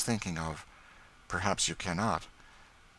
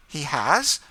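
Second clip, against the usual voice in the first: quick, high and louder; quick startled question; 9 semitones higher, 9 dB louder than usual. A narrator's reading. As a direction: snap it out before thinking. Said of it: "said Madame Desault quickly".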